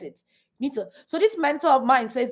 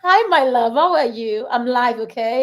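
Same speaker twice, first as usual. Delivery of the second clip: real, louder greeting to a little one; 6 dB louder than usual. Real, not acted. Greeting own child mid-live.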